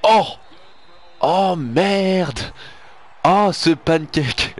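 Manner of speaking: loud, high startled cry; excited shout. Real, not acted. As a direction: shout at the big hit. Reacting to being pancaked.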